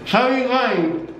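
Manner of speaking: cheeks stuffed, mumbled words; mouth full. Real, not acted. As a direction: barely articulate through the mouthful. Chubby Bunny game, mouth stuffed.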